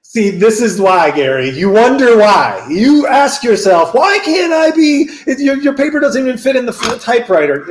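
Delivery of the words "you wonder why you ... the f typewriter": put-on a faded British accent, louder and higher; British editor slipping into American; fading British accent. To the writer Gary, a fading British accent. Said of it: "I've lost my accent".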